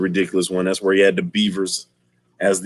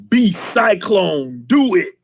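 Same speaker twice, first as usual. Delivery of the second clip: mock command; 9 semitones higher, slower than usual. Villain ordering henchman.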